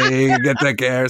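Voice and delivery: lightly put-on Peaky Blinders British accent; mock British accent. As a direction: imitate a British gangster calling out. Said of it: "I thought of you two right away".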